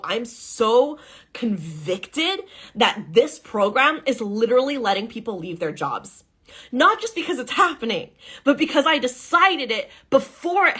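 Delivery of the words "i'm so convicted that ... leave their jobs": deeply grounded, deliberate belief; grounded conviction. Shown as a demonstration. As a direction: say it with calm, unhurried certainty. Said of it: "It's like, no".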